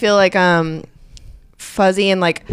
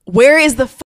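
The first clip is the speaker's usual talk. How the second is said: higher-pitched imitated Southern accent; exasperated newcomer with a Southern accent; big Southern accent; 5 semitones higher, 4 dB louder than usual. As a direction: ask it in a put-on Southern accent. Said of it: "I had a big accent".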